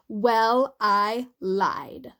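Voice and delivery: a hint of smug, offhand confession; Sue's smug tone. Sue to the sisters, lightly smug offhand admission. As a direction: toss "I lied" off with mild smugness. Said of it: "This was exactly her tone".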